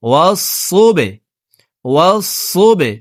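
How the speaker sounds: the ব in ওয়াসুবে bounced with a jolt; ওয়াসুবে recited slowly with a bouncing ব; qalqala bounce. Shown as a demonstration. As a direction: knock the ব in ওয়াসুবে downward. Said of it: "বা কলকলার হরফ ... ধাক্কা দিয়ে উচ্চারণ করব".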